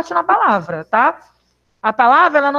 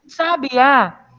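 "Sabiá" with the final á stressed. Shown as a demonstration. Teacher repeats word for class, stressing final á of "Sabiá". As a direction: land firmly on the á of "Sabiá". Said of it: "a sílaba tônica é o A".

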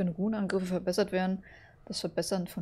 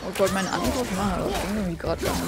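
loud and frustrated; 8 dB louder than usual. Real, not acted. Frustrated at a failed attack.

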